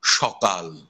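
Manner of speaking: সকাল with a crisp স at the teeth; dental স. Shown as a demonstration. Teacher answering how to say dental স. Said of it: "তাহলে দন্তস্ব কি করে উচ্চারণ করব".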